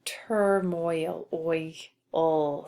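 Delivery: "turmoil" slowly, then "oi" and "ul" apart; sounding it out. Shown as a demonstration. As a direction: say "turmoil" drawn out, then separate oi from the final L. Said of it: "Since we have that L sound".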